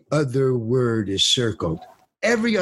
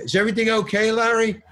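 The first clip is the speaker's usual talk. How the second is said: high, drawn call with little added volume; mock director's yell; 8 semitones higher, faster than usual. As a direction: call from afar, half-shouted. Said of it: "the director yells from the camera".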